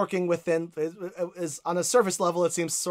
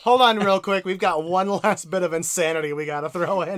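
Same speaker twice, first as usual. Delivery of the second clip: louder, higher, laughing game butting in; gleeful voice of the game adding one more stop; teasing game voice; 4 semitones higher, 7 dB louder than usual. Retold or imitated. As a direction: play the game cheerfully stalling you. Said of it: "continuing the game's voice".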